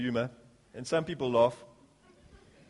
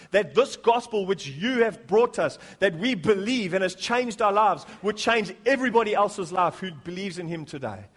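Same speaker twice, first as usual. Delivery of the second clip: earnest public prayer, building in volume then easing; fervent prayer; 3 semitones higher, 3 dB louder than usual. Real, not acted. Pastor leading the church in prayer before scripture, fervent. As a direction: pray aloud with growing insistence.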